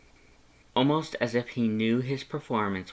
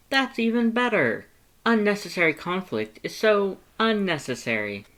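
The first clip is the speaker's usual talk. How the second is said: high, loud, eager skeleton; Papyrus voice; 10 semitones higher, 4 dB louder than usual. A narrator's reading. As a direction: talk up your past like an earnest, excitable skeleton. Papyrus delighted.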